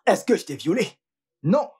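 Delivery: sneering through laughter; mock her while chuckling; gloating laugh. (ricanement narquois)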